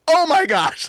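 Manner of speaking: high mock cry of alarm; retold shocked outburst; frightened reaction. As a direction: act startled by a threat, pitch leaping. Acted fright at demon's threat.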